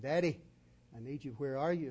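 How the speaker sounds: put-on scared child calling. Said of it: "and he screamed".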